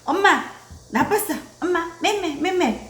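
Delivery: high baby-talk pretend scolding; grandmother mock-scolding mom. Grandmother blaming mom for the child, mock scolding. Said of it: "엄마를 가리키면서".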